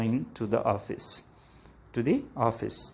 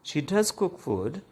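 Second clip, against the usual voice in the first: higher voice with "does" lifted; emphatic DOES; 5 semitones higher than usual. Shown as a demonstration. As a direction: make the point by stressing "does". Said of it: "has to emphasize this point".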